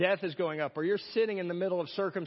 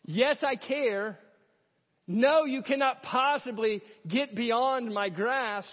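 cross's voice; 3 semitones higher, slower than usual. Pretend. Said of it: "The cross forever shouts".

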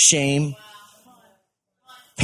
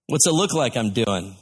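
mildly sarcastic comeback, imitating a bricklayer; sarcastic retort; 2 semitones lower than usual. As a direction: answer with understated sarcasm. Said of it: "said all sarcastically".

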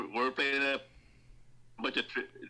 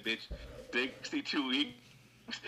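mock shock; 3 dB quieter, much slower than usual. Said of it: "I'm just like".

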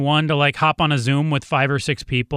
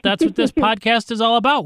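host voice; 7 semitones higher than usual. Acted. Playful podcast host line.

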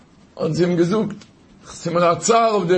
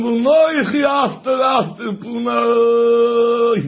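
calling out. Retold or imitated. Calling out loudly in story.

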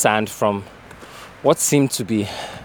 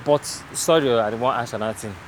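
casual Pidgin question; Nigerian Pidgin; 3 dB quieter than usual. Real, not acted. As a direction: ask it in Naija Pidgin. Switches to pidgin with worker.

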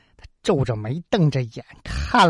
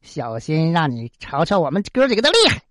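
mild taunting; 3 semitones higher than usual. Acted. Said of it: "反而叫嚣上了".

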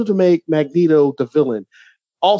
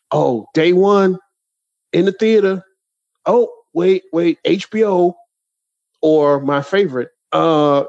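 mock trailer shout. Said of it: "we would always shout out".

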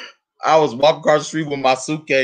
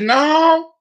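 firm no; 13 semitones higher, 4 dB louder than usual. Retold or imitated. Her flat refusal.

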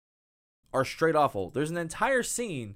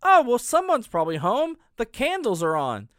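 higher, louder breezy cheer, lightly voiced; mock naive girl; 8 semitones higher, 6 dB louder than usual. Host mocks the girl trusting the cabin, breezy naive cheer. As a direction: act cheerfully clueless. Mocking naive character line.

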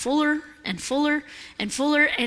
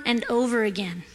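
whispered; 4 semitones lower, 5 dB quieter than usual. Acted. Reading scripture, trailing off.

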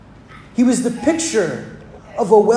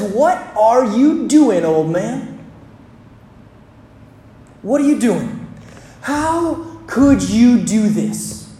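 put-on older brother's outburst. The older brother confronting the father over the party, indignant. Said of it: "But the older brother says".

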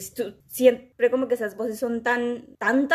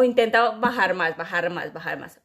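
imitating choir teacher; 2 semitones lower than usual. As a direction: nudge the voice down with each repeat. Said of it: "era como".

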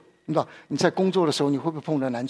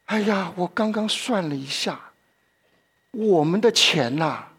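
mock lament; 5 semitones higher than usual. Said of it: "这财主说".

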